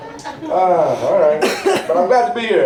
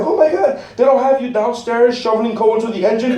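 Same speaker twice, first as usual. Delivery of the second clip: amazed; 4 semitones higher than usual. Retold or imitated. Amazed at fancy cruise.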